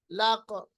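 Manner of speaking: लक with a bounced final क; qalqalah demo. Shown as a demonstration. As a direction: let the क of लक echo. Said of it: "आप मेरी आवाज पे गौर कीजिए". (लक पर क़ाफ़ का क़लक़ला)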